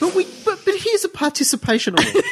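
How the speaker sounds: mock the prize blurb with a sugary condescending voice; patronising mock voice. Co-host mocking the Pulitzer blurb, high laughing parody. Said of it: "oddly patronising pat on the head".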